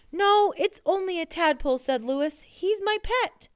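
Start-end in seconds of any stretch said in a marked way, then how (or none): 0.1-1.8 high-pitched, insistent correction; urgent protest. A narrator's reading. Lewis protests to panicking coach. 2.4-3.5 high, drawn-out plea; pleading explanation. A narrator's reading. Lewis pleads for his pet.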